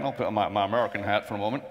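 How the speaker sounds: a quick, self-mocking stab at an American accent; mock American accent, rushed and half-hearted; bad American accent. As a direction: play a Brit doing a hammy American accent. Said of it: "that was my really bad American accent".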